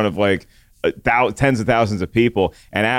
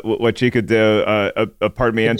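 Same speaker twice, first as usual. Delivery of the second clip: self-conscious Spanish accent. Real, not acted. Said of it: "forgive my awful accent".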